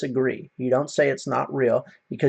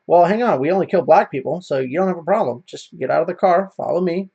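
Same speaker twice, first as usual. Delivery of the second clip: sarcastic; 4 semitones higher, 3 dB louder than usual. Retold or imitated. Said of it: "being sarcastic".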